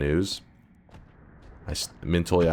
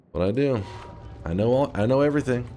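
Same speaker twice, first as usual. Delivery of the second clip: smug boast; 5 semitones higher, faster than usual. Retold or imitated. Mock boast after helping students.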